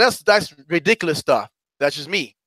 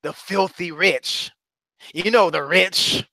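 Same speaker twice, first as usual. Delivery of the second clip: mock disgust; slower than usual. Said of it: "with disgust".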